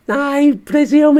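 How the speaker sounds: high, slow squeaky puppet voice dropping out of role; a quick unsure puppet aside; high puppet voice muttering an afterthought; Bert the puppet aside. Pretend. Puppet's own aside mid-reading.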